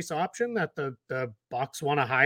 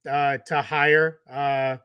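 strained, halting through back pain; having a back spasm. Real, not acted. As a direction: push the words out through a spasm. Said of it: "Sorry, I'm having a back spasm".

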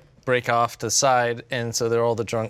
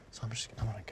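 softer, timid mumble; awkward exit; 2 semitones lower, 16 dB quieter, much faster than usual. Retold or imitated. Date excusing himself from the sobbing women, quietly. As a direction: sneak out of the moment. Slipping away from crying women.

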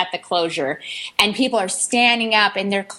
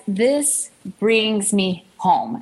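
hushed confiding; 2 semitones lower, much slower than usual. Retold or imitated. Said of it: "she leans over to me and says".

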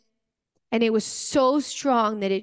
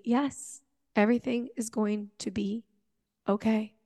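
softer, a calm promise; gentle reassurance; 6 dB quieter than usual. Retold or imitated. Jesus answering her fear, soft and reassuring. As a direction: soothe a frightened friend quietly.

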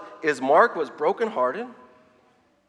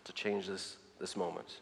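softer, calm invitation fading out; gentle instead of yelling; 7 semitones lower, 8 dB quieter than usual. Retold or imitated. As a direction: speak gently where you'd want to yell. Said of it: "rather than yelling".

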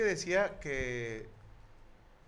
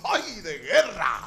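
pained cry; 9 dB louder, slower than usual. Pretend. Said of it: "y dijo".

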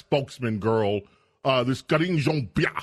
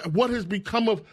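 higher-pitched reproach, cut short; mock indignation; 8 semitones higher than usual. Host voicing Russians laughing at America, mock indignant. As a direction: mimic appalled onlookers judging a country. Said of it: "They're saying".

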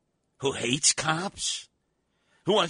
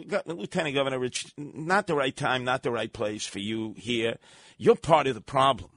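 mock polite; 6 semitones lower than usual. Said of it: "You should have very politely said".

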